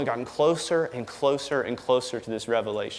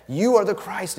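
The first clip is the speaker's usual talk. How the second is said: higher and louder, each word punched; emphatic; 7 semitones higher, 4 dB louder than usual. Retold or imitated. Peter proclaiming to his peers, emphatic. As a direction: declare it with full conviction.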